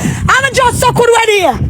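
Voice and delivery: slow, high, shouted taunt. Real, not acted. Taunting the rival girl with a slow shout. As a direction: stretch it out and yell it.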